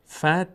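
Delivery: "فتح" with t and h both vowelless; two silent consonants. Shown as a demonstration. Teacher showing two sukuns, t and breathed h without vowels. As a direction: stop on "فتح", ending in a breath of h. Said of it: "دو تا ساکن رو چطور تلفظ کنیم".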